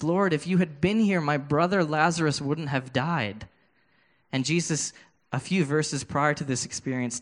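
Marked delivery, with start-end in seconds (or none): 0.0-3.5 Mary crying. Acted. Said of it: "she's crying to Jesus".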